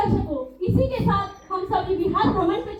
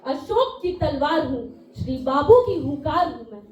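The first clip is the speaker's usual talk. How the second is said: poem recitation; 2 semitones lower than usual. Acted.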